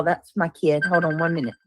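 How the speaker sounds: speaking away from the mic; turning away from phone. Real, not acted. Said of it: "Sorry, that was my kid".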